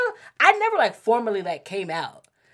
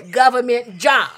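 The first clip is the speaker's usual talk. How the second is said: laughing; 4 semitones higher, 10 dB louder than usual. Real, not acted. Laughing at mom's advice.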